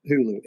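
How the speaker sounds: Hulu said as HOO-loo, silent G; proper pronunciation. Shown as a demonstration. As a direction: say Hulu with no G sound. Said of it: "to properly say Hulu".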